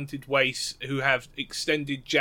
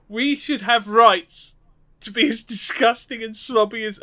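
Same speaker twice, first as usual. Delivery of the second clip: mock impassioned speech; 7 semitones higher, 5 dB louder than usual. Mock speech for fat people.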